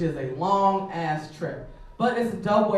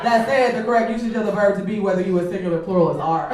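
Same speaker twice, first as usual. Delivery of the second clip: mock lecture; 5 dB louder than usual. Lecturing the catcaller on grammar.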